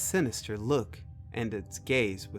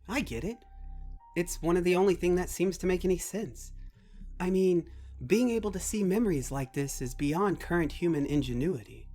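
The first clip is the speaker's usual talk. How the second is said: higher conversational character voice; young doctor character, puzzling it out; 7 semitones higher than usual. Acted. Young doctor works out computer's origin, higher pondering voice. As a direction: think aloud, higher, as the idea dawns.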